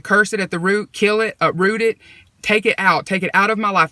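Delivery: re-enacted prayer with rising urgency; insistent retold prayer. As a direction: pray it insistently, command after command.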